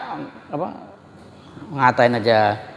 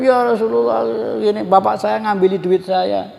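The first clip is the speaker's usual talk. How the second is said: higher-pitched voice of a son reporting his father; acted, raised-pitch complaint; complaining son; 5 semitones higher than usual. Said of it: "lapor sama Rasulullah".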